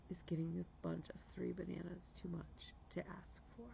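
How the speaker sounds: whispered inner question; a soft whispered voice in her head; whispered thought. Retold or imitated. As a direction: hush it like a private thought. Quoting a thought she never had.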